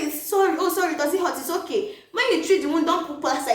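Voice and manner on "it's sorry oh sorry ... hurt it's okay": soothing parent. Retold or imitated. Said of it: "first you say".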